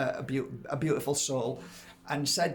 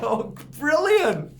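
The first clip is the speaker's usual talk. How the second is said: much higher, loud, drawn-out delight; delighted exclamation; 12 semitones higher, 7 dB louder, slower than usual. Retold or imitated. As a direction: savour the good news. Delighted reply to Kirsten.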